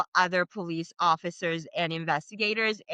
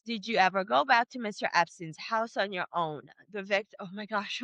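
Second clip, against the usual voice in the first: real catch of emotion in the voice; touch of a breaking voice; voice cracking; 4 dB quieter than usual. Real, not acted. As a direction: read on, slightly choked up. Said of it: "cracking off for her reading this".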